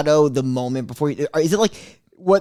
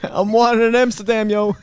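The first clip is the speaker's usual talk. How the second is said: tipsy party chatter; 4 semitones higher than usual. Retold or imitated. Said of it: "That's my Shane party impression".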